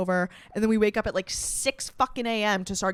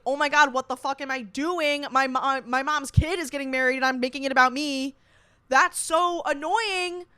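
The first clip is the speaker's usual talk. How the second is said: higher, exasperated retelling of scolding yourself; retold self-reproach; 4 semitones higher, 4 dB louder than usual. Bridesmaid scolding herself for making it about her, exasperated.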